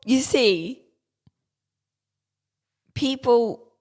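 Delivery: smug lecturing snob voice; tech snob voice. Acted. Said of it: "Now you've got me doing it".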